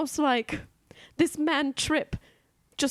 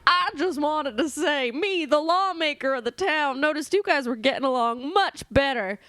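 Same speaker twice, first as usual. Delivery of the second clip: bartender character; 3 semitones higher than usual. Acted.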